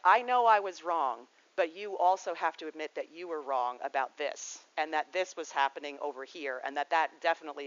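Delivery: half-apologize, then pile on the blame; hammed-up self-justifying sorry; mock Pisces excuse. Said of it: "it's like the Pisces".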